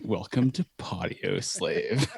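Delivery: slow, cheesy host greeting; corny podcast intro. Retold or imitated. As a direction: ham up a stiff show opener. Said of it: "I just sound so corny at the beginning".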